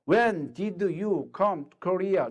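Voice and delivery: very slow, word by word; slow teacher model sentence. Shown as a demonstration. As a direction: drill it slowly. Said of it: "야, 너 언제 한국에 왔어?".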